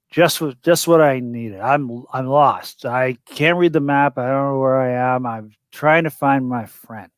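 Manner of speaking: stagger through it like a sloshed stranger; drunken slur. Acted. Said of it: "and I'm gonna slur".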